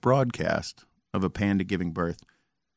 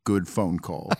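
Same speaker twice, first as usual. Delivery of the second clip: mock Trump quote. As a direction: lightly ham up his run of verys. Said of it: "There was, like, seven verys in a row".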